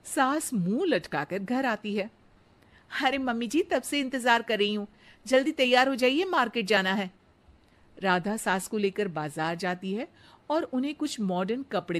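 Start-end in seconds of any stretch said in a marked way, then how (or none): 3.0-7.1 put-on higher, eager young bride's voice; sweet daughter-in-law. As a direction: flatter the mother-in-law sweetly. Radha hurries her.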